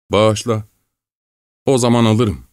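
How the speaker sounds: plead, scared and trembling; trembling with fear. A narrator's reading. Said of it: "korkudan titreyerek".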